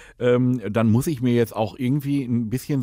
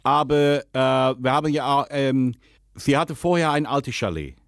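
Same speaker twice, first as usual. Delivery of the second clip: put-on Dutch accent, lisping. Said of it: "rede, lispeln und Holländisch".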